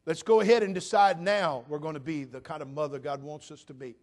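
full-force preaching. Acted. Pastor exhorting mothers from the pulpit, loud. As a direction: drive it home to the mothers.

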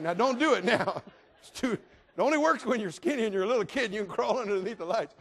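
can't get through the line without laughing; preacher cracking up at his razor-blade story. Real, not acted. Preacher laughing at his own joke.

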